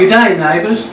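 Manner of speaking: mock Australian greeting, a little low; amateur attempt at sounding Australian; Australian accent. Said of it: "give us your Australian accent".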